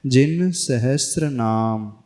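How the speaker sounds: जिन सहस्र नाम slowly, सहस्र without t; measured model, सहस्र as sa-has-ra; correct sahasra. Shown as a demonstration. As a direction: articulate sr clearly in सहस्र. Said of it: "सहस्त्र नहीं बोलना".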